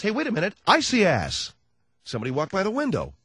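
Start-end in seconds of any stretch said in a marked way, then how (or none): 0.0-1.5 higher, mock-startled exclamation; ad announcer interrupting himself. Announcer breaking off his lettuce spot, mock surprise. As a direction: break off the ad with a sudden cry. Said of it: "He's doing a spot".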